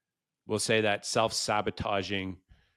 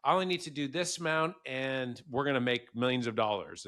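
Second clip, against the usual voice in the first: high, eager, laughing optimism; excited; 5 semitones higher than usual. Retold or imitated. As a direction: gush like a hyped entrepreneur. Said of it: "It's like".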